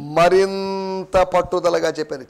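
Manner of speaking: మరింత stretched out slowly for emphasis; slow, insistent weight on మరింత; stress on మరింత. Shown as a demonstration. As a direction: draw out మరింత before the rest. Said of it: "మామూలుగా చెప్పారని కాదు".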